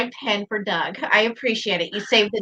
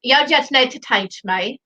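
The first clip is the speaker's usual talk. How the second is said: attempted British accent. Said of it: "See, I did it".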